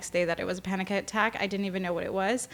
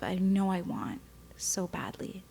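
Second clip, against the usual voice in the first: whispered; 6 dB quieter than usual. Real, not acted. Longing for a family.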